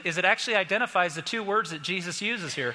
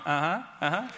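put-on gloating kid. Taunting mom with candy.

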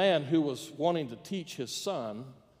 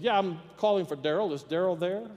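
lightly acted caller, slightly raised pitch; a hint of an innocent caller; phone caller; 3 semitones higher than usual. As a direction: casually ask for someone on the phone. Caller rings the number again.

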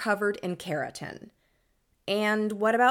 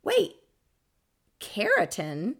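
surprised; 2 semitones higher, 4 dB louder than usual. Real, not acted. Host surprised by new word.

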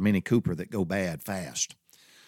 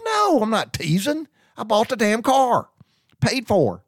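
high, loud, slow insistence; exasperated insistence; 14 semitones higher, 4 dB louder, slower than usual. Retold or imitated. Insisting to Laura he isn't teasing, loud and exasperated. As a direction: spell it out slowly and loudly.

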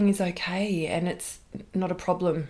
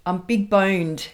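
Cartman voice; 2 semitones higher, 4 dB louder, slower than usual. Retold or imitated. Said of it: "thanks Cartman".

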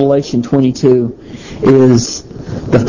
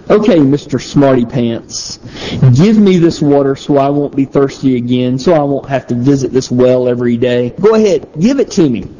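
mock-rude retort, pitched up on the last dare. Shown as a demonstration. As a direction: read it as a scornful brush-off. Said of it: "you could read verse fifteen this way".

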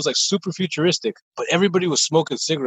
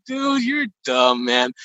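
mocking put-down; much slower than usual. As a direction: stretch it out like talking to an idiot. Mocking the owner's excuse.

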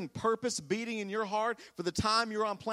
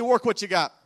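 sassy, a bit louder, hit Work; with sass; 6 dB louder than usual. Shown as a demonstration. Congregation repeats it to a neighbour with sass. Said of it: "with a little bit more sass".

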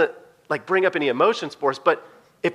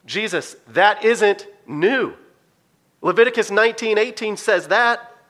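confused disciples; 4 semitones higher, slower than usual. Retold or imitated. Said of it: "they look confused".

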